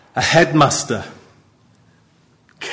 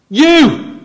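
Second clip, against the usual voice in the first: "you!" burst out much higher and louder; emphatic you; 14 semitones higher, 7 dB louder than usual. Shown as a demonstration. Preacher reads the psalm with emphatic "you!". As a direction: hit "you!" hard and high like a sudden reveal. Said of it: "It's very emphatic".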